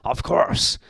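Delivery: very high, eager woman's voice; high-pitched wifely enthusiasm; exclaiming wife. A narrator's reading. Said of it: "exclaimed Missus Grinling".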